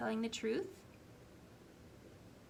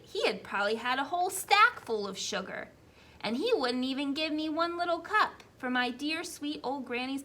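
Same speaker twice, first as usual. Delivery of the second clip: wolf telling his side, higher and louder; wolf narrator; 3 semitones higher, 10 dB louder than usual. Acted. Teacher reading the wolf's tale, a higher wolf voice. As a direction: play the wolf spinning his excuse, brisk.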